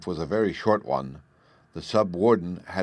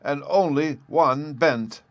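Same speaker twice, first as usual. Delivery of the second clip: put-on a gleeful old professor, higher and slower; 7 semitones higher, 3 dB louder than usual. A narrator's reading. Professor boasting to the birthday girl in high glee. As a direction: savour each word with childlike delight. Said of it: "the professor added in high glee".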